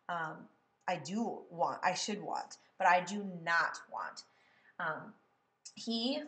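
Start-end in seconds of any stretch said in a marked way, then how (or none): 0.9-1.8 I do want, weight falling on want; stress on want. Shown as a demonstration. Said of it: "I might make it sound like". 1.8-2.6 I should want, weight falling on want; stress on want. Shown as a demonstration. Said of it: "I might make it sound like". 2.9-4.3 not hit louder than the rest; stress on not. Shown as a demonstration. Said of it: "I want not to be really stressed".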